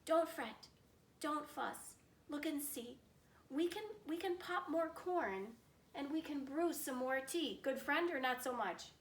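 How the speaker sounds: a hint of a kind little mouse; squeaky mouse. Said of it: "The mouse squeaks".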